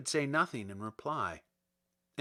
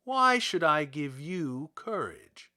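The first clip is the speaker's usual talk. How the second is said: demanding wizard; 4 dB louder than usual. Acted. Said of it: "demanded Oz".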